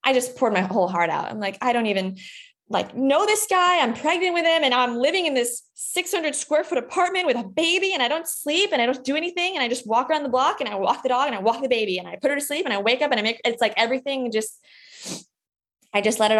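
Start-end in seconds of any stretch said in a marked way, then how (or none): 1.6-13.4 higher, half-tearful retelling of a breakdown; retold crying outburst. New mother telling her doctor everything, retold tearful outpouring. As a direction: replay the overwhelmed rant, strained and pitched up. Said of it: "just started, like, crying, incessantly crying".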